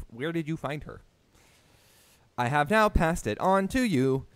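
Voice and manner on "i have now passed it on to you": stiff monotone robot voice. Pretend. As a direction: read it like a machine announcement. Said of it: "I can use my robot voice for this".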